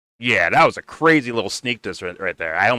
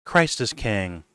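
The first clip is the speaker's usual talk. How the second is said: mock pious; 5 semitones higher than usual. Mocking the hosts' pretended care for him, lightly pious. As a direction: parody the saintly concern. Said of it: "pretending to be like".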